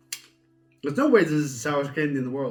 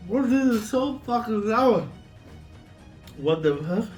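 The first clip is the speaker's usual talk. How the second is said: shocked disbelief; 7 semitones higher, slower than usual. Real, not acted. Reacting to intense sourness.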